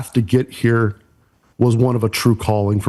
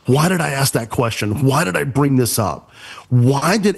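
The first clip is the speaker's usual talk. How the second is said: exasperated self-questioning, slightly raised pitch; livid retelling; 3 semitones higher than usual. Retold or imitated. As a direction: retell kicking yourself, mildly livid. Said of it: "I am livid".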